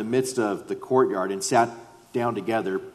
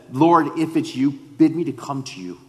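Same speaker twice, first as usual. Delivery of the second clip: higher, emphatic voice of bold faith; confident; 4 semitones higher, 5 dB louder than usual. Acted. Peter asking Jesus to bid him walk out, confident. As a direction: call it out boldly, sure of the answer. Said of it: "The confidence of".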